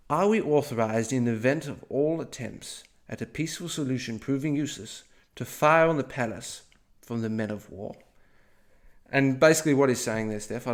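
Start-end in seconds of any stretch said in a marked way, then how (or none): 0.1-7.9 lightly posh British diplomat voice; posh British accent. Acted. British diplomat asking superiors by telegram, light posh British accent. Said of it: "but here goes".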